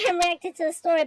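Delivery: quick laughing explanation. Real, not acted. Streamer laughing while explaining her reaction. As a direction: laugh through the words, a bit rushed.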